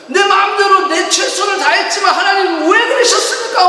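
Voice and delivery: King David railing at God; angry cry to God. Retold or imitated. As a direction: hurl the question at heaven.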